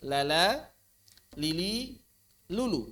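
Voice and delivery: "La la lili lulu" with heavy, dark l's; mock the wrong heavy reading of "La la lili lulu"; wrong thick lam. Shown as a demonstration. Teacher imitating students' mistaken heavy lam on "La la lili lulu". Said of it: "Bukan la la lili lulu".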